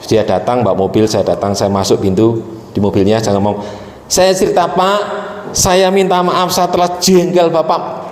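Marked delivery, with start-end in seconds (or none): 4.0-8.0 tearful plea. Retold or imitated. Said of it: "sambil nangis".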